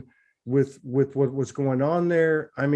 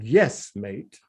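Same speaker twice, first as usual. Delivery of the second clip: imitating an Australian man; lightly put-on Australian accent; attempted Australian accent; 3 semitones lower than usual. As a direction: quote him with a touch of Aussie. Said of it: "in his accent".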